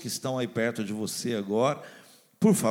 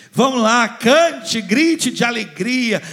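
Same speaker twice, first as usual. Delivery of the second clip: loud high rallying cry; urgent urging; 8 semitones higher, 9 dB louder, slower than usual. Retold or imitated. God urging the barren one to sing, loud and high. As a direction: shout them into action like a coach. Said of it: "quando ele fala assim".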